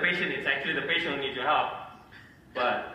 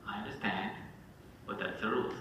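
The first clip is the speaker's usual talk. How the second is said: calm HOA voice; 5 semitones lower, 9 dB quieter than usual. Retold or imitated. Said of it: "And you go".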